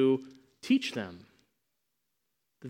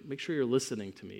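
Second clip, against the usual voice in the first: put-on mother to child; 4 dB quieter than usual. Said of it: "the way a mother sometimes has to say to a child".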